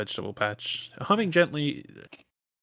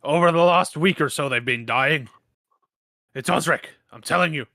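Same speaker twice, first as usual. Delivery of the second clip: insistent angry farmer; 5 dB louder than usual. Acted. GM voicing angry farmer Tullus.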